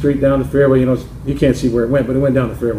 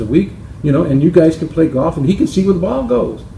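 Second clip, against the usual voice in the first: higher, lightly voiced suggestion; a hint of the wife with a bright idea; helpful wife; 4 semitones higher than usual. Wife suggests Bill play golf with George, higher and lightly eager.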